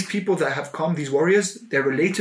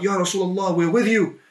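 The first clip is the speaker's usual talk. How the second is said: crowd shout; 5 semitones higher than usual. Retold or imitated. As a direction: call it out like the whole crowd backing him. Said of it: "all began to shout".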